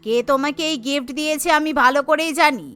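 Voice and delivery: scolding wife. Acted.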